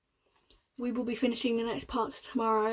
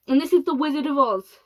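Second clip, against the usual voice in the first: sarcastic; 4 semitones higher, 9 dB louder, faster than usual. Acted. Shanks mocking.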